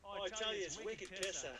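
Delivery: put-on Boston accent. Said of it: "Boston accent".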